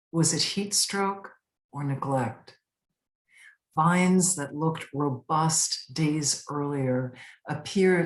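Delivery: measured narrative verse, evenly phrased; poem reading. Acted. Poet presenting a pandemic poem called Sweet Pea, measured recital. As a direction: recite it as a poem, pausing between sentences.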